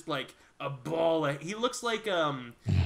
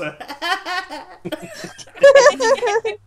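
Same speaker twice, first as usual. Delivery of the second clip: high mock-nervous laugh; nervous laughter; 11 dB louder than usual. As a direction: act out a tentative, nervous laugh. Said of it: "Just kind of tentative, nervous laughs".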